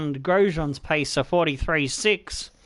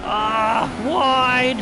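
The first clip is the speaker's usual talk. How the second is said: loud, higher cry as the car runs wide; groaning shout at a missed corner; frustrated yell; 6 semitones higher, 5 dB louder than usual. Real, not acted.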